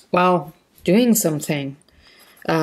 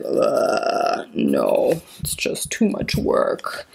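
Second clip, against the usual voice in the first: weary whining; 6 semitones lower, 4 dB quieter, slower than usual. Retold or imitated. Voicing her own tired reluctance.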